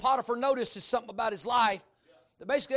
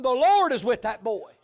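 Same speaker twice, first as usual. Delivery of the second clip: booming, slow proclamation, voice raised; loud declaration; 8 dB louder than usual. Retold or imitated. Preacher quoting Potiphar to the congregation, loud and slow.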